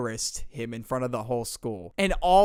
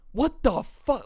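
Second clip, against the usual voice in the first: startled; 10 semitones higher, slower than usual. Retold or imitated. Michael startled at night.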